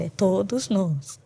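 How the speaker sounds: "todos nós" drawn out slowly for clarity; emphatic TODOS NÓS. Real, not acted. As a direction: make "todos nós" slow and unmistakable. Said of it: "deixa bem claro".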